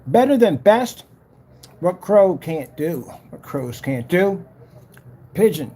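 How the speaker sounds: slow, punchy sales pitch; mock ad read. Streamer pitching pigeon against crows, mock advert voice. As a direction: pitch it like an advert, pausing between phrases.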